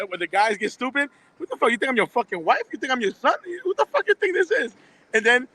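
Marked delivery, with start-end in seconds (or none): 1.4-4.7 imitating a furious contractor, pitch jumping up on the curses; hammed-up indignant rant, higher on the last line; mock angry outburst. Telling off a customer who got stupid, mock angry. Retold cursing at rude customers.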